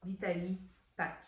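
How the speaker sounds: English product name in a Québécois accent; French-accented English. Real, not acted. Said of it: "excusez mon accent anglais".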